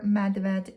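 medved said as Slovenian MED-ved, slow; medved in careful Slovenian; Slovenian word. Shown as a demonstration. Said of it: "in Slovenian".

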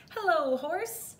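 high, cheery duck hello; Duck's greeting. A narrator's reading. Duck greeting Cow from his bike, high and chirpy.

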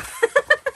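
short high embarrassed laugh. Real, not acted. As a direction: giggle at yourself. Laughs after confusing tutorial.

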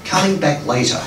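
measured phrases with pauses between; deliberate storytelling poetry delivery; poem reading. Acted. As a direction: read a dream poem aloud to an audience. Reads sonnet aloud.

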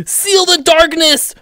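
slow, high-pitched cry; playful heroic proclamation; hammy battle hero. Pretend. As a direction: draw it out as a mock-epic vow. Acting the hero.

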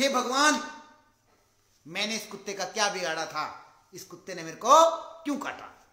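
loud cry to the heavens. Retold or imitated. Boss bitten by a dog crying out to God, loud. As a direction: yell out in pained disbelief. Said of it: "चिल्ला रहा है".

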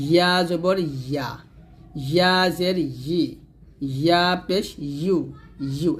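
slow "ইয়া জবর ইয়া", tongue middle to palate. Shown as a demonstration. Teacher showing the articulation point, palatal "ইয়া". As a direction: clear y glide in "ইয়া" and "ইউ". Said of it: "জিহ্বার মধ্যখান উপর তালুর সঙ্গে লাগাবেন".

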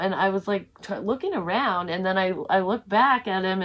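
usual speaking voice

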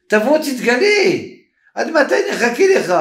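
high, urgent appeal; impatient plea. Retold or imitated. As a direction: plead impatiently, pitch jumping up. Pleading with the Messiah to appear. (הפצרה חסרת סבלנות)

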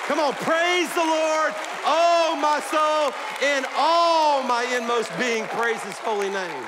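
slow, high, loud praise call; full-force preaching. Acted. Pastor calling congregation to praise, loud and slow. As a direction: lift the church into praise, slowly and loud.

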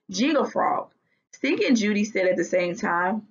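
lively storybook read-aloud; reading to children. A narrator's reading. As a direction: read it like a children's chapter book. Teacher reads the story aloud.

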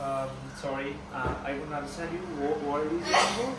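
slow put-on Scottish accent. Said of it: "അതെന്താ accent ആ".

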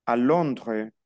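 "Londres" without its last S; silent final S. Shown as a demonstration. Teacher reads the answer, Londres with silent S. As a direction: leave the S off the end of "Londres". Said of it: "no pronuncio la S final".

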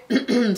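a quick rough clearing of the throat. Real, not acted. Vlogger clears her throat while losing her voice, throat clearing. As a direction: clear the throat mid-sign-off, voice going. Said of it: "Sorry, I'm losing my voice".

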